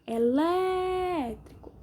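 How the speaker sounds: "Elétrico" with LÉ stretched long and high; stress on LÉ. Shown as a demonstration. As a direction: draw out the LÉ in "Elétrico". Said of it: "Sílaba mais forte é o lé".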